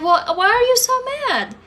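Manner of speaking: high, sugary mock father voice; mimicking father. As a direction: imitate his fake sweetness, high. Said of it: "and he said".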